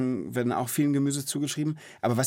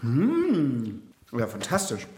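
burned tongue; much slower than usual. Real, not acted. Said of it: "Zunge verbrannt".

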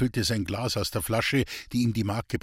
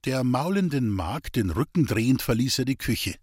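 plain reading voice

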